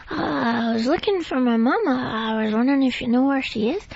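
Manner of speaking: put-on small childlike voice timidly asking for mama; Babe. Shown as a demonstration. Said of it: "That's Babe".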